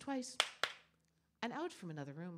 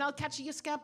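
chasing threat; 4 semitones higher, 7 dB louder than usual. Acted. Short man chasing her.

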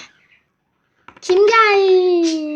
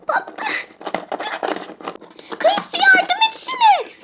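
much higher, slow plea for help; high pleading voice. Pretend. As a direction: beg your friend to help, high. Calls for help in struggle.

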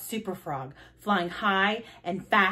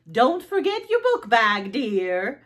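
mom calling after; 2 semitones higher, 3 dB louder than usual. Acted. Mom reminds Froggy as he leaves, calling after. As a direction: call it after a departing child.

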